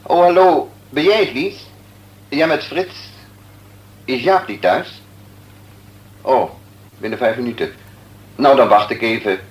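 phone call. Acted. Doctor on the phone.

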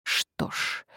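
soft, voiceless sigh. A narrator's reading. Walsingham after watching Mary leave, sighed softly. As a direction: let it out on a resigned breath. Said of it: "вздохнул".

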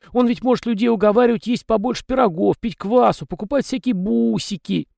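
high, folksy little peasant voice; chatty house spirit. A narrator's reading. House spirit Tikhon rambling to the young master, high and folksy. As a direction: prattle on as a talkative domovoi.

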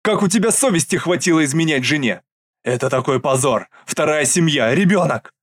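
loud, indignant scolding; angry reproach. Acted. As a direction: shame him for cheating. Mother scolds son over affair. (возмущённый упрёк)

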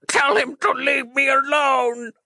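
high, slow pleading squeal; squealing dying man. Acted. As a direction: beg in a thin high wail. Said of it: "squealed the dying Randy Man".

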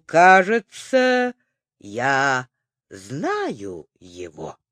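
медленно, удивлённо, затихая; протянуть с удивлением; удивлённо протянув. A narrator's reading. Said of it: "удивлённо протянул". (удивлённое раздумье)

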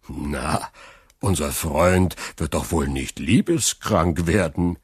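mock him lightly. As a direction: Caderousse mocking Fernand to Danglars, mildly scornful. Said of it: "sprach Caderousse spöttisch".

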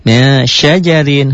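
MIN with a long veiled N into SYAJARIN; ikhfa recitation. Shown as a demonstration. Teacher giving an example of nun before shin, slow veiled N. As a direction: recite slowly, holding the blurred nasal of MIN. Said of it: "Hukumnya ikhfa".

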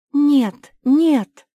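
high, loud cry of alarm; shout. Acted. Cinderella stops Mafi from agreeing, shouting. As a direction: scream to stop her. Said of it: "закричала Золушка".

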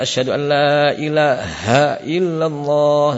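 slowish asyhadu an la ilaha with a forced ha; overdone ha. Shown as a demonstration. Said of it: "membaca berlebihan".

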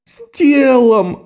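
высоко, нарастающим воем к «телом»; провыть с притворным горем; душераздирающий вой. A narrator's reading. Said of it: "душераздирающе провыл Лок". (Лок воет перед торговкой)

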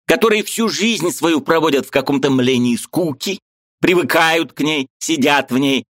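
high, eager voice of a Ukrainian friend; lively high-pitched friend arguing; Mikhalevich's voice. A narrator's reading. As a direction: play the excitable friend up high. Mikhalevich ranting.

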